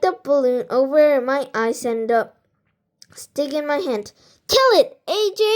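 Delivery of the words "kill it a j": high rowdy shout; boy yelling. A narrator's reading. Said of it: "the boy yelled".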